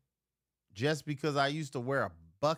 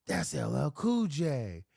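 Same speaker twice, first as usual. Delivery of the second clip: 1 excited spotting; 4 semitones higher, slower than usual. Retold or imitated. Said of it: "And I was like".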